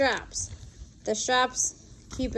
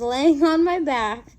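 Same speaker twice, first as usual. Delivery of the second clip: laughing; 3 semitones higher, 7 dB louder, slower than usual. Real, not acted. Laughing at own embarrassing fall.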